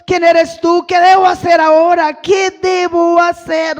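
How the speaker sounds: loud, urgent plea, retold from the pulpit; preacher voicing a frightened, insistent appeal; acted fearful urgency. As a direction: cry out the questions as if overwhelmed. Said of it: "Él estaba temblando, temeroso".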